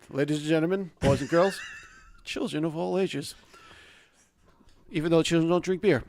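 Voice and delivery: ringmaster. Acted. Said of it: "do it now".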